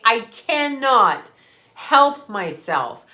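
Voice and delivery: slow, each word stressed; slow emphatic. Shown as a demonstration. Telling viewers, slow and stressed. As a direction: spell out cannot help myself slowly. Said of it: "because I cannot help myself".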